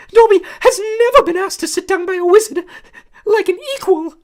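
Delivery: high, loud squeaky elf voice; a small eager servant creature, awed; squeaky house elf. A narrator's reading. House elf greeting Harry, high squeaky and awed. Dobby voice, tearful.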